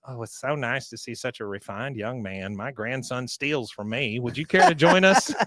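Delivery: lightly voiced genteel old lady; a hint of a tea-room matron. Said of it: "The old ladies are looking at him".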